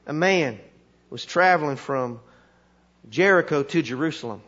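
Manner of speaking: lightly voiced country preacher, long pauses between phrases; halting folksy Bible tale, pitch sinking; backwoods preacher storytelling. Country preacher telling the committee a story, measured backwoods voice. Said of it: "he starts to tell this story".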